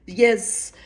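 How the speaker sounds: put-on French accent. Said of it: "in a very French accent".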